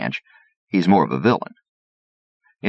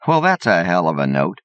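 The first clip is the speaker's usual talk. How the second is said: exclaiming; 4 semitones higher than usual. Acted. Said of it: "exclaims Mister Slatterman".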